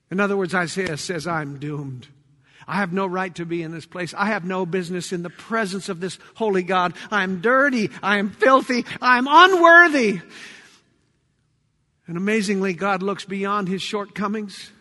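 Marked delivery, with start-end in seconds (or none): 1.3-10.2 hushed, low despair building to full voice; despairing confession. Acted. Isaiah confesses before a holy God, hushed despair building. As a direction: start low and defeated, build to an outcry.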